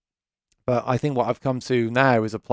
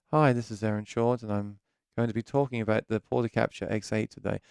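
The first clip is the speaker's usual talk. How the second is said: mimicking a timid, softer video intro; soft, self-conscious; 7 dB quieter than usual. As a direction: keep it small, as if neighbours might hear. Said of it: "maybe I was self-conscious".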